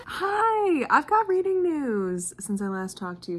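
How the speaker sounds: normal talking voice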